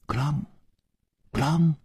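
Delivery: short, ringing mimicked clank; imitated metallic clang. A narrator's reading. Narrator mimics banging heard from underground, clanging. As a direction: voice the clank of struck iron. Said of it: "听起来仿佛是铁器敲打声".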